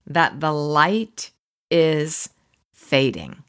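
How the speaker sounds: slow, drawn-out quote reading, falling away at the end; reading aloud. Real, not acted. Host reads the author's quote on overwhelm, measured reading. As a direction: let each phrase linger, then sink on the last word.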